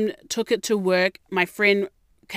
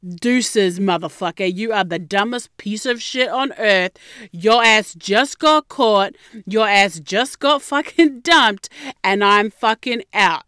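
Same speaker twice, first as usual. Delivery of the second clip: retold telling-off; 4 dB louder than usual. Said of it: "I was like".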